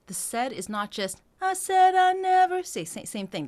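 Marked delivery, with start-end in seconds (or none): 1.4-2.6 louder sung line with "said" punched; accent on said. Shown as a demonstration. Coach demonstrating the accent on said. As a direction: hit "said". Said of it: "accent point on the said".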